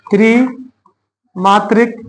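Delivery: त्रिमात्रिक said slowly, each syllable clear; careful pronunciation. Shown as a demonstration. Teacher modeling त्रिमात्रिक for students. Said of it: "त्रि कैसे बोला?".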